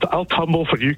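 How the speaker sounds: ordinary delivery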